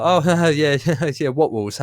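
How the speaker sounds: laughing it off. Retold or imitated. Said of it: "Me and Ron were just like".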